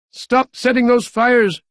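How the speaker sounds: frantic mayor yelling orders; yelled order. A narrator's reading. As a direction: bark it into the radio. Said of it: "yelled Carter".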